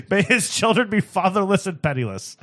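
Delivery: laughing. Acted. Rereading the curse with a laugh.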